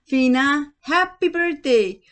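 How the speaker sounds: very high, loud party shout; surprise yell. Acted. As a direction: burst out as everyone springs the surprise. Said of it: "Everyone was there yelling".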